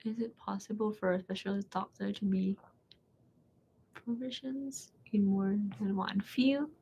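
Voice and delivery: soft hesitant reading. Real, not acted. Reads a prepared question softly.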